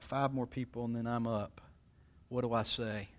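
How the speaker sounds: soft, worried murmur to yourself; nervous inner thought. Acted. Waiting in the funeral line, quietly fretting about what to say.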